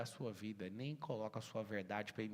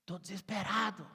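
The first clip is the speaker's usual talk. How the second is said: higher, louder mock plea of despair; mock desperate whiner; 7 semitones higher, 5 dB louder than usual. To the audience, mocking the excuse-maker with a hammed-up whine. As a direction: ham up a whiny excuse-maker. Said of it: "Olha as desculpas".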